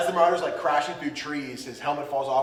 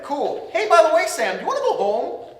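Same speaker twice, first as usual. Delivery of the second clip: much higher, louder cutesy creature voice; voicing Celebi; 13 semitones higher, 7 dB louder than usual. Celebi offering Sam a ride home, high squeaky creature voice. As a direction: squeak it out like a tiny forest sprite. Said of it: "so Celebi's like".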